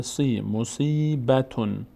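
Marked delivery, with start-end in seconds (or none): 0.0-0.4 سی with a drawn-out "ee"; long vowel. Shown as a demonstration. Teacher showing learners the ya after kasra, long vowel. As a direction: hold the ee in سی. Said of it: "بعدش یا آمده".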